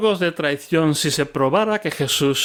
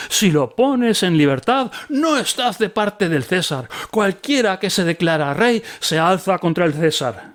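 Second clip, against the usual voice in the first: crowd shouting; 4 semitones higher than usual. Acted. Crowd threatening Pilate about Caesar, high mob shout. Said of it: "se pusieron a gritar".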